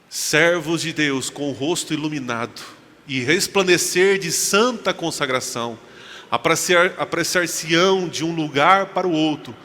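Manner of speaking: slow, measured declamation; solemn scripture-style reading. Acted. Preacher reads end-time text to congregation, solemn declamatory reading. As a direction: read it out as weighty prophecy, stretching phrases.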